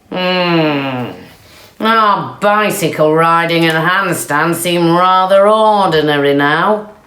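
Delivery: a lightly voiced jealous cow; grumbling cows.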